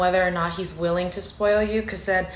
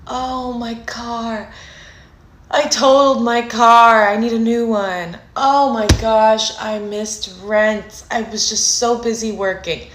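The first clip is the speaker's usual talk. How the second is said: damsel in distress; 3 semitones higher, 5 dB louder than usual. Retold or imitated. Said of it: "The damsel in distress gets bigger and bigger".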